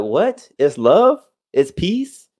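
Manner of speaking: imitated disbelief, rising questions; mock bewilderment, each question climbing; incredulous fans. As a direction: echo it back as if baffled. Acting out fans' disbelief at rapper.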